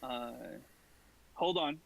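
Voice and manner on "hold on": calm and reassuring. Acted. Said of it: "in a very calm and reassuring tone".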